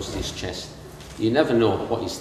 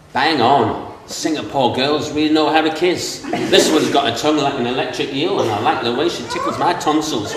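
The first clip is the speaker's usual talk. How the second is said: Doug's exclamation; 5 semitones higher, 7 dB louder than usual. Retold or imitated. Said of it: "For Doug to exclaim".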